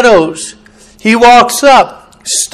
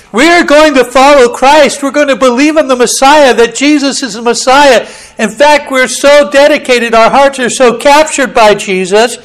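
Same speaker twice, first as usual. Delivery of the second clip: fervent declaration; 5 semitones higher, 3 dB louder than usual. Acted. Believers declare their faith.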